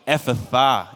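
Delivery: Ephphatha spoken by everyone, EF-fa-thar; Ephphatha said together. Shown as a demonstration. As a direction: lead Ephphatha, falling to the end. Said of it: "say it all with me".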